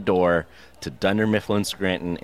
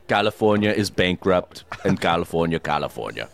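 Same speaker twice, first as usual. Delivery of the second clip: Arnold Schwarzenegger voice; 4 semitones lower than usual. Retold or imitated. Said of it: "in his Arnold Schwarzenegger voice".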